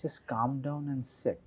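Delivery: lightly imitated veteran actress, soft and slow; Sharmila. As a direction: gently shush an over-eager admirer, drawn out. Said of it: "फिर उन्होंने कहा". (धीरे, नरम आवाज़ में चुप कराने की नकल)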